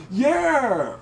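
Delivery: lightly mimicked drawn-out outburst; a high, falling exclamation in a mimicked voice; Tracy Morgan. Acts out Tracy's reply.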